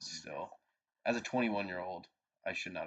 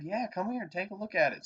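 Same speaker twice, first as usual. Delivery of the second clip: imitating the cop; 12 semitones higher, 4 dB louder than usual. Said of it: "He said".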